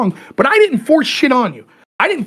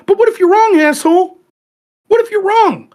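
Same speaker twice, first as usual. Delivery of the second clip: jab the question at him, raised; heated challenge; 8 semitones higher than usual. Acted. Telling a cohost about a friend, heated higher challenge.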